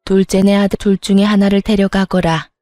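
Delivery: a hint of an authoritative father laying down orders; stern family patriarch. Father orders his sons about the family heir, lightly voiced stern patriarch.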